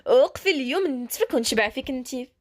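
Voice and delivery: chasing shout, stretched out and menacing; shouting after her. Acted. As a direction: bellow it as you chase her down. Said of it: "وكتغوت".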